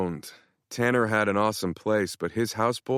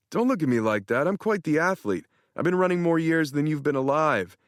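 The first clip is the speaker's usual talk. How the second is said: lightly voiced cocky friend, a bit higher; a hint of a smug buddy; boastful Tanner; 7 semitones higher than usual. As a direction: brag it with a grin. Tanner's voice in story.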